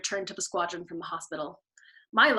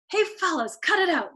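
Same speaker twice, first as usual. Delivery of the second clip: embarrassed plea; 7 semitones higher than usual. A narrator's reading. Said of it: "begged with embarrassment".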